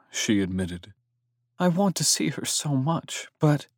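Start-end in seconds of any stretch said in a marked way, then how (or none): 1.6-3.7 pleading. A narrator's reading. Girl longing for sister.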